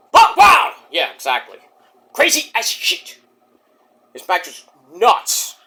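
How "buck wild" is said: big excited yell, pitched way up; loud, wild wrestling fan shout; hyped shout. Real, not acted. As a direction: holler it out in disbelief. Echoing shouted hype.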